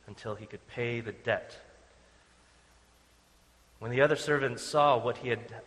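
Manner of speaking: a full, projected reading of the parable; scripture reading. A narrator's reading. Pastor reading the parable to the congregation, projected scripture reading. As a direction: read the Bible passage aloud to the whole room.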